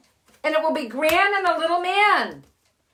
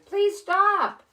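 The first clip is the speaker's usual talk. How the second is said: higher pleading please stop; pleading Gran; 8 semitones higher than usual. Acted. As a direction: beg him to stop as Gran. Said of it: "said Gran".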